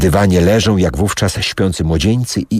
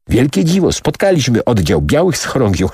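raised voice; 6 semitones higher than usual. Acted. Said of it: "podnosząc głos".

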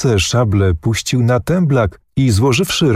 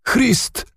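a sharp, much higher cry of pain, softer than it reads; German cry; 3 dB quieter than usual. A narrator's reading. Wounded prince cries out in German, a high sharp yelp. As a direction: yelp the word out as the blade strikes. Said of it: "krzyknął po niemiecku książę".

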